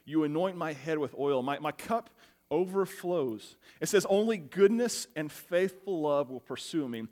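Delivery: slow, measured reading of the psalm; scripture reading. Acted. Pastor reading Psalm 23 to congregation, slow and reverent. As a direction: read it like a prayer, unhurried.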